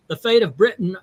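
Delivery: faintly attempted English accent. Shown as a demonstration. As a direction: try an English accent, badly. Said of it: "I should be doing an English accent".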